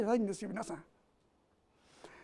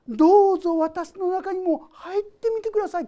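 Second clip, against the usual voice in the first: higher, earnest plea; inviting prayer; 6 semitones higher, 7 dB louder than usual. Pretend. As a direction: open up and invite him in earnestly. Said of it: "心を開く".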